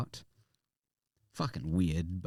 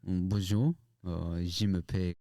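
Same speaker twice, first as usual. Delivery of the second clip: French with English accent. Shown as a demonstration. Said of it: "That sounds still very, um, French, but with, like, a English accent".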